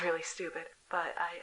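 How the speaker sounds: normal talking voice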